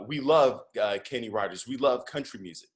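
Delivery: roughly imitated Nigerian accent; bad Nigerian accent. Uber driver explaining his taste in music, bad Nigerian accent. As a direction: try a clumsy Nigerian accent. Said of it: "I'm doing a horrible Nigerian accent".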